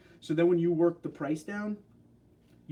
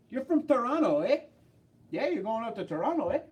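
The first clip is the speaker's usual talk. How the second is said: high-pitched mock Canadian accent; mock Toronto accent; 7 semitones higher than usual. Teasing a viewer from Toronto, mock Canadian accent. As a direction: tease in a Toronto accent with a lifted "eh".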